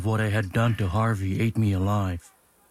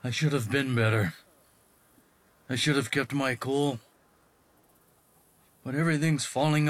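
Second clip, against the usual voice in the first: quiet, shaken confession, softer throughout; a father ashamed after hitting his son, voice breaking; 3 semitones higher, 3 dB quieter than usual. Acted. Dad alone with Kyoko, ashamed.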